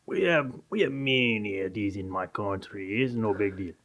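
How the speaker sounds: put-on a lightly done Colombian accent, casual and shrugging; Colombian-sounding accent. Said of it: "The Cuban sounded a little Colombian".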